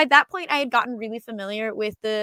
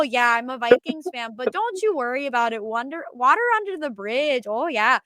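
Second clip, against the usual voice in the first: put-on Minnesota nice accent; 2 semitones higher, 3 dB louder than usual. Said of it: "go hard on the accent".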